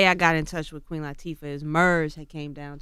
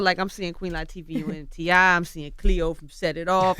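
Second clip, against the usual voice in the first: rising excitement, louder and higher; starstruck, gushing over a hero; excited; 3 semitones higher, 6 dB louder than usual. Real, not acted. Starstruck listing her roles.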